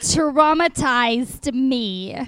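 slow, stretched Jersey vowels; Jersey accent practice. Shown as a demonstration. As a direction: try out a Jersey accent, drawing out each word. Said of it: "Say it a few times".

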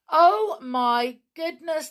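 slow, high, loud astonishment; alarmed exclamation. A narrator's reading. Narrator as the first witches appear, alarmed. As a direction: gasp it out, stretched and high.

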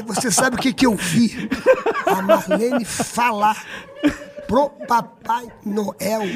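very slow build-up with long pauses; dramatic slow revelation. Retold or imitated. He reveals to Xuxa what he saw, dramatically slow. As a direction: stretch each phrase to hold suspense.

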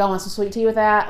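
lightly put-on Southern accent; playful country twang offering hospitality. Shown as a demonstration. Showing the accent picked up down there, Southern twang. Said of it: "it's a twang".

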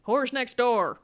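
blunt deadpan bartender, laughing through it; gruff bartender line. Retold or imitated. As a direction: toss it off flat, matter of fact. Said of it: "Diana, what does he say?".

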